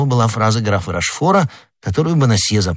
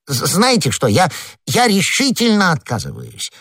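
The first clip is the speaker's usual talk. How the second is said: high, flustered protest; nervous, pitched-up resolve; stammering refusal; 8 semitones higher than usual. Acted. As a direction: stumble over the words while refusing. Frightened husband stammers a refusal.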